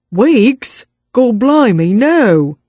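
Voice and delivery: Weeks? jumps high and loud; Cockney thug aghast at "Weeks?"; shocked Cockney retort. A narrator's reading. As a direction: recoil at "Weeks?" in disbelief.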